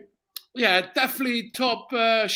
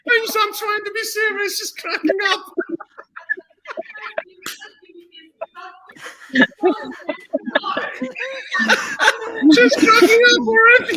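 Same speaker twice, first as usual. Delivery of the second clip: high, loud laughter through the words; real helpless laughter; laugh-crying, pitched high and loud; cracking up; 10 semitones higher, 4 dB louder than usual. Real, not acted. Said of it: "we're cracking".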